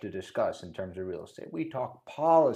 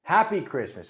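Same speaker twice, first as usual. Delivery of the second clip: a light put-on British accent saying "Happy Christmas"; playful hint of a British accent; mock British accent; 4 semitones higher, 4 dB louder than usual. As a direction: say "Happy Christmas" like a jokey Brit. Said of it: "Probably shouldn't use that accent".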